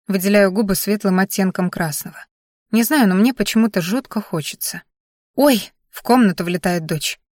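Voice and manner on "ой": put-on delighted little girl. Daughter bursts into the room.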